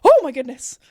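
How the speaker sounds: a touch of a posh British mother clutching her pearls; mild mock-alarmed posh British gasp; lightly voiced posh British fright. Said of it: "British posh mother that was clutching her pearls".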